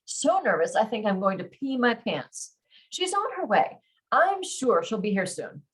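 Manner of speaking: expressive romance audiobook reading; story narration. A narrator's reading. Nervous heroine recounting meeting her crush, animated narration. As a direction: read the flustered heroine's story with lively dialogue. Resumes reading the novel aloud.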